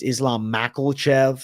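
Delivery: Makhachev as MACKLE-chev; slow Makhachev with an added l sound; variant mispronunciation. Shown as a demonstration. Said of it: "That's another one".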